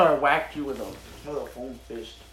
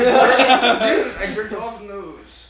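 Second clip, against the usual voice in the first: very slow, drawn out through laughter; laughing tease; 3 semitones higher, 6 dB louder, much slower than usual. Real, not acted. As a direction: savour the gross joke while laughing. Teasing friends, laughing.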